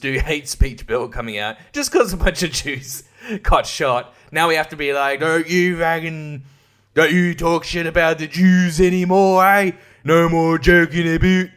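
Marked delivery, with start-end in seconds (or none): 5.2-11.5 mock Canadian. Mocking the new hate speech law, mock Canadian scold. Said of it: "you're Canadian all of a sudden".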